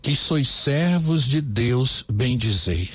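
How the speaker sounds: slow, deliberate lyric reading; slow, careful reading of the new lyric. Shown as a demonstration. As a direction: read the verses out for dictation. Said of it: "Anote aí então como ficou essa letra".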